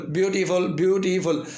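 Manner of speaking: ब्यूटीफुल in three measured beats; ब्यू-टी-फुल, evenly counted out; three syllables. Shown as a demonstration. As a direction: mark each syllable of ब्यूटीफुल. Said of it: "तीन syllable हैं".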